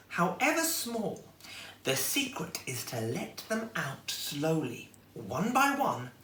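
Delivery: lightly voiced grandmotherly reassurance; wise old lady. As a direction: teach the secret slowly and kindly. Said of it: "said the old lady firmly".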